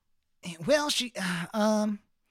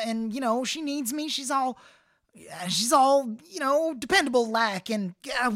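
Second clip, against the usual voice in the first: pleading confession; 4 semitones higher than usual. Acted. Jeffy's tearful pleading confession.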